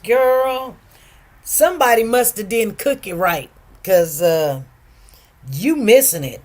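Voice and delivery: loud insistent. Real, not acted. Urging a viewer to try cabbage.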